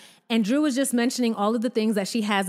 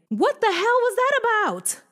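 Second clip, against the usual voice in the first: incredulous; 10 semitones higher than usual. Retold or imitated. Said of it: "And I'm like".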